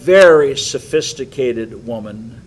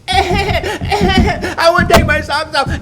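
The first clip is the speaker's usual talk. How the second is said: much higher, slow, louder stretched whine, laughing; imitating a whiny little girl, high and slow through laughter; drawn-out child whine; 6 dB louder, slower than usual. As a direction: drag out "I want to take my socks off" like a nagging child. Mimicking whining child.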